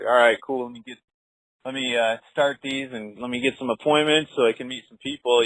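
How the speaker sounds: lightly upbeat, ready to start dialing; fired-up energy. Shown as a demonstration. Agent showing a host his call-time attitude, lightly fired up. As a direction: demonstrate mild get-going energy. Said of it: "What does that fired up energy sound like".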